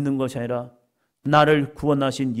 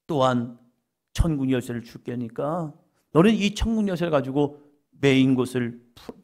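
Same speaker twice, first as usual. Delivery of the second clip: ordinary delivery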